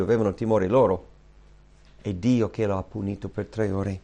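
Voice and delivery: normal talking voice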